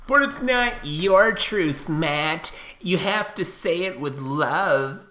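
high, slow whiny mockery; mocking critic. Ranting at online critics, a slow whiny mocking voice. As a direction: whine it like a preachy scold. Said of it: "I'm like".

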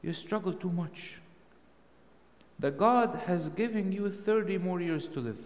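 a hint of the devil coaxing a monk; lightly voiced devil. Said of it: "the devil came to one of the monks and he told him".

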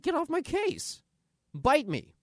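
high, slow, loud sassy retort; mock defiant shout. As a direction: push the critic away with a yell. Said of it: "You're like".

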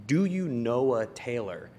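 slow, lightly put-on Australian accent; fake Australian accent. Shown as a demonstration. Fake assistant calling a prospect, in an Australian accent. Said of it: "calling someone in a fake".

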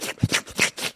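quick wordless lapping noises; imitated dog lapping. Soldiers drinking at the creek, imitated dog lapping. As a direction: imitate dogs lapping at water. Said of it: "like dogs, it says".

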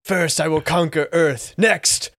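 stiff flat corpse mumble; slow undead drone on Mars; zombie voice. Pretend. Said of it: "I'm trying to do a zombie voice".

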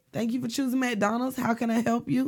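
a hint of a perky cashier greeting; sweet customer-service voice, lightly put on; cheerful cashier voice. Showing friends her old McDonald's greeting, lightly perky. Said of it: "I had a great attitude".

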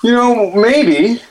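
distant, off-mic voice; far from mic. Real, not acted. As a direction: speak from across the room. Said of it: "I've walked away from the mic".

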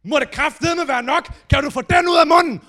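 high, loud angry yelling; furious outburst. Retold or imitated. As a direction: roar at the flatmate eating toast. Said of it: "han går bare amok".

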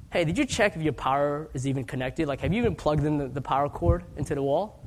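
sarcastic. Retold or imitated. Rep teasing the clueless caller, lightly sarcastic. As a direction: needle him with a lightly sarcastic question. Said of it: "sarcastic joke".

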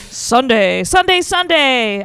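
booming monster truck ad voice; monster truck announcer. Pretend. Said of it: "I wanna do that monster truck voice".

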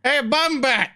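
high, laughing, slowed-down call; chirpy hammed-up greeting; playful laughing voice. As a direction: sidle up and tease through laughter. PC sidles up, laughing.

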